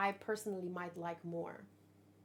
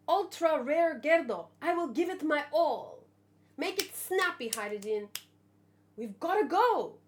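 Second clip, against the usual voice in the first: raised, eager voice; lightly voiced Gerdo; 4 semitones higher, 4 dB louder than usual. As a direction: play the loyal giant rushing. Reading Gerdo's manga lines.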